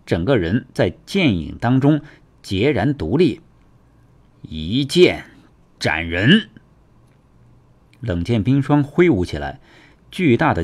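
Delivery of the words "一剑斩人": measured, weighty sword cry; battle technique call. Acted. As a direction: declare the strike in two separate beats. Fighter calls out sword technique.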